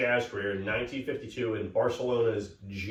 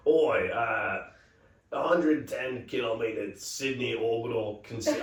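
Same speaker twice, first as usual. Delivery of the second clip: put-on Australian accent. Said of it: "do an Australian accent".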